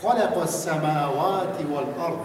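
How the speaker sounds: خلق السماوات والارض read slowly in Arabic recitation style; slow Quranic reading. Shown as a demonstration. Teacher models a Quran phrase for students to repeat. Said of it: "نیاز به تمرین".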